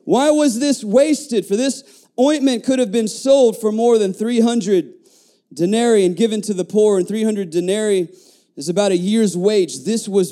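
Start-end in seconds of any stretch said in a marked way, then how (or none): 0.1-8.1 indignant scripture reading. Acted. Preacher quoting the objectors to the congregation, indignant scripture reading. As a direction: read it out as a pointed objection.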